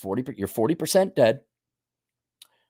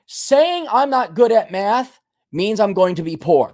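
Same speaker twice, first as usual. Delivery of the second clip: repeat after me; 5 semitones higher than usual. Shown as a demonstration. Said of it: "repeat after me".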